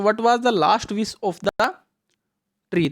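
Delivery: slow, deliberate reading of the question; slow read-aloud. Shown as a demonstration. Teacher reading the exam question to children, slow and clear. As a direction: read each word clearly for the kids. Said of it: "rereads the question slowly".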